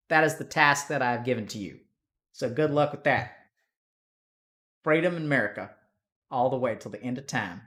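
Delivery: emphatic put-on Texan; Texan accent. Shown as a demonstration. Streamer handing viewers their raid task, Texan accent. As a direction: proclaim it as a hammed-up Texan. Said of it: "Do a Texan accent".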